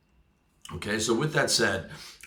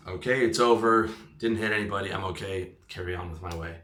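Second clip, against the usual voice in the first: calming self down. Retold or imitated. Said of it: "deep breath".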